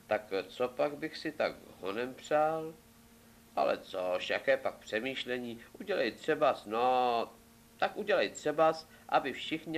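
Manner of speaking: lightly acted thinking aloud; hesitate, then hit on an idea; Ivánek musing. Boy inventing a test wish for the king, lightly acted musing.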